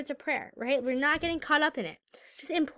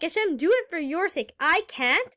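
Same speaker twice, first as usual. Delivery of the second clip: higher-pitched plea to God; acted imploring; 5 semitones higher, 3 dB louder than usual. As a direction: implore on behalf of the helpless. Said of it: "Implore him to do it".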